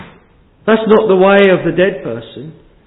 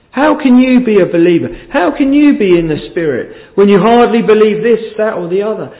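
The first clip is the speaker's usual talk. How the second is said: mock accuser pressing higher; devil's taunt; 5 semitones higher than usual. Preacher voicing the devil to the congregation, rising taunt. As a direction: taunt the doubter, needling.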